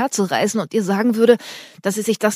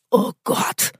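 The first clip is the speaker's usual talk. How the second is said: breathless stunned whisper; stammered in shock. Acted. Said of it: "stammelte Tobi fassungslos".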